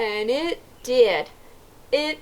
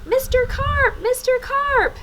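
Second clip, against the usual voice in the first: yell demo. Shown as a demonstration. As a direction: call with the kids. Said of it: "Let's yell for Mister Carp".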